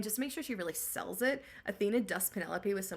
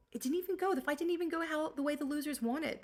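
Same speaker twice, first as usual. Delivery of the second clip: put-on squeaky teen voice; 8 semitones higher than usual. Telemachus retelling fight, voice jumps high.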